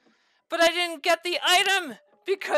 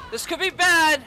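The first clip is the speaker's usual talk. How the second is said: alarmed exclamation. Real, not acted. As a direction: say it again as real panic sets in. Boss recovers faster than expected.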